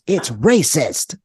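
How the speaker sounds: drawn-out, slow gnome complaint; slow mock-indignant creature voice; imitated gnome voice. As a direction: mimic an offended little gnome, stretching it out. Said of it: "that kind of a voice".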